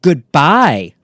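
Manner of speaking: loud shouted goodbye. Retold or imitated. Narrator shouting goodbye while pushing her ex out, loud. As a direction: yell it as you shove him out.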